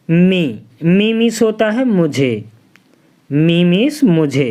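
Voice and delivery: normal talking voice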